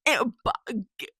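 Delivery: stammering in disbelief, then loud; flabbergasted. Real, not acted. Flabbergasted at mom entering the shower.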